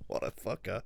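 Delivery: soft breathy whisper after laughing; whispered aside. Real, not acted. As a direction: whisper it fondly under your breath. Laughing aside about Tom.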